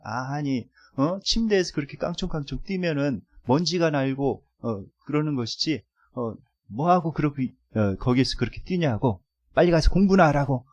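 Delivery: mildly irritated parent, retold; mock scolding. Mother telling off a son for jumping on the bed, mild mock anger. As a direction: imitate a parent's cross telling-off. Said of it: "막 화를 내는 것입니다".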